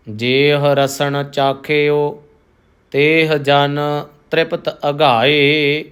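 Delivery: measured, devout reading of Gurbani; slow scripture recitation. Acted. Teacher reciting the shabad for the congregation, slow and devout. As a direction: recite each phrase slowly with reverence.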